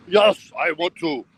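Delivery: mock Russian girl. Vlogger voicing an imagined Russian girl saying yes, mock accent.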